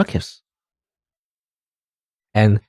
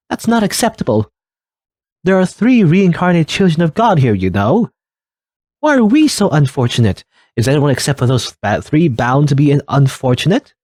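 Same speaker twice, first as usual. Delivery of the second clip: upset villager; 4 semitones higher than usual. Acted. Villager protests the ritual's unfairness.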